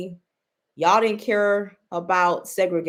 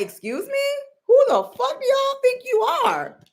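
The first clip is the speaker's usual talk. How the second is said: high, affronted mock outrage; Donald Trump. Imitating the president asking who y'all think you are, mad. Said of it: "he's mad".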